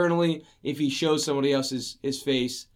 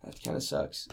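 whispered; 11 dB quieter than usual. Real, not acted. Trails off after disbelief.

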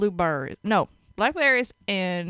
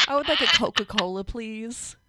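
prim order. Pretend. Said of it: "I refuse to say it".

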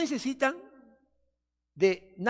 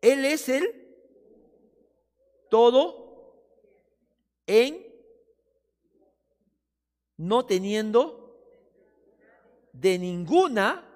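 slow, louder, word by word with long pauses; slow reverent reading; 2 semitones higher, 7 dB louder, slower than usual. Shown as a demonstration. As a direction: savour each word like rumination. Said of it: "Vamos a leerlo lentamente".

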